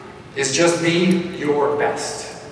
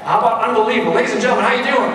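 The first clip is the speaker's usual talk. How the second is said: crowd hype; 7 semitones higher, 4 dB louder, faster than usual. Real, not acted. Calling on audience to respond.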